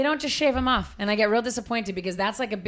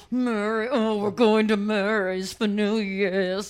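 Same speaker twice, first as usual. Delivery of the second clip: slow, drawn-out grand lady voice; extravagant Boston woman; much slower than usual. Retold or imitated. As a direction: imitate a fancy rich old lady. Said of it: "that's how she talked".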